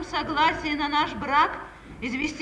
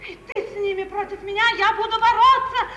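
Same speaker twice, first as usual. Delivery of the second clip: outraged protest. Acted. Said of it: "Нечего вопить".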